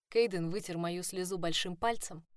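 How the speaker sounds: ordinary delivery, nothing marked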